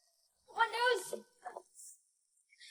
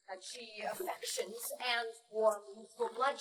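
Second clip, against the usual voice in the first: whisper; 8 semitones lower, 6 dB quieter than usual. Acted. Juliet musing alone.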